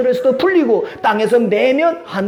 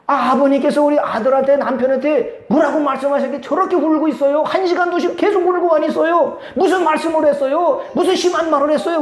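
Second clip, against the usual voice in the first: higher, urgent questioning; daughter-in-law anxiously asking her father-in-law what he said, higher; 5 semitones higher than usual. Retold or imitated. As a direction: press for answers, faster at the end. Wife pressing father-in-law.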